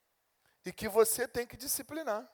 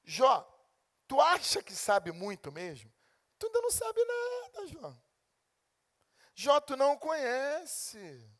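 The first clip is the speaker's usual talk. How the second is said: God rebuking Job; 5 semitones higher than usual. Retold or imitated. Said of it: "e dizer: Jó".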